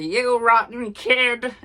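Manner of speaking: hammed-up furious old lady yelling; angry granny. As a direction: bellow it like a granny chasing a kid. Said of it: "the walker-wielding granny being like".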